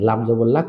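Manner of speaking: লাম জবর লা, letter name then vowel then the syllable; spelled out slowly. Shown as a demonstration. Teacher spelling a Quranic syllable out for learners. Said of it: "শুরুতে একবার বানান করে এভাবে".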